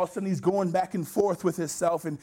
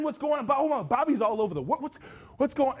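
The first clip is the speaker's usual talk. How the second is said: high, stammering mock bewilderment; puzzled onlooking family; 8 semitones higher than usual. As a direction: act out relatives baffled from afar. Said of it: "your family's looking at you from a distance".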